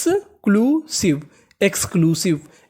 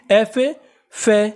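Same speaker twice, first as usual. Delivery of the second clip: slow spelling out; much slower than usual. Shown as a demonstration. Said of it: "इसे पढ़ेंगे".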